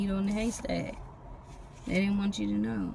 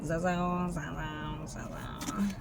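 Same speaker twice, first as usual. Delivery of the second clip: imitating a white girl; 5 dB quieter, much slower than usual. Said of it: "And she's like".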